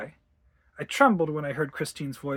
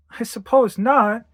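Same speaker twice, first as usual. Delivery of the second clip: higher, slow rueful concession; 6 semitones higher, 7 dB louder, slower than usual. A narrator's reading. Wife giving in to husband's teasing, rueful. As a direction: concede slowly, a touch rueful. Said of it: "I laughed ruefully".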